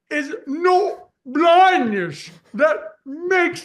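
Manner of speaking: put-on very high, very slow, stretched-out British accent. Imitating Helen Keller speaking: Helen Keller with a British accent. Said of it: "she has a British accent".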